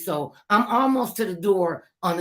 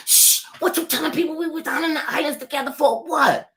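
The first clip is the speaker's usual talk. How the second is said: sassy retort; 10 semitones higher, 4 dB louder than usual. Retold or imitated. Teasing retort to a singer.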